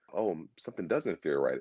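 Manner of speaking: understated mock worry; tentative unease. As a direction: voice a vague hunch quietly. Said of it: "like, it wasn't a".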